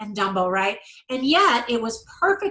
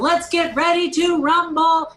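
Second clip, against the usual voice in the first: drawn-out, higher announcer call; ring announcer catchphrase; 5 semitones higher, 4 dB louder than usual. Retold or imitated. Quoting the announcer's real-life line, imitated announcer call. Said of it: "what he says in real life".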